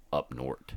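"north" said as "nort"; local pronunciation. Shown as a demonstration. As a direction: say up north with a hard final t. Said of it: "is what they call it".

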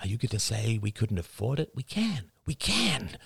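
insistent, rising pitch on the protests; pleading argument. Acted. Husband arguing with his wife over daycare, insistent pleading. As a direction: press the point with hushed urgency.

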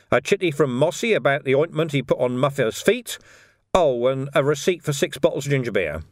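officious policeman, lightly in character; lightly voiced copper. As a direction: reel off the paperwork with mock helpfulness. Vimes lists the paperwork aloud.

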